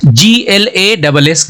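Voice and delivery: slow letter-by-letter spelling; teacher spelling out a word for the class; spelled out. Shown as a demonstration. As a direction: spell each letter slowly and clearly. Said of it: "इसका pronunciation हम कर रहे हैं ग्लास".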